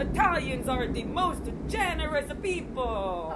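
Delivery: slow, high, loud pompous boast; customer's boast. Retold or imitated. Customer boasting to dancer, pompous slow voice. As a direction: puff it up like a proud Italian customer. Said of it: "the first thing he starts talking about is".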